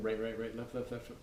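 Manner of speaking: murmured sticking. Shown as a demonstration. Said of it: "I'm just kinda thinking".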